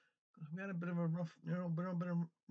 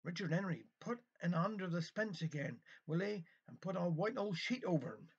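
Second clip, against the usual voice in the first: lively Cornish storyteller, a little raised; story reading; 3 semitones higher than usual. A narrator's reading. Reading a village kitchen tale to listeners, animated storytelling. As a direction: tell it as a homely dialect tale.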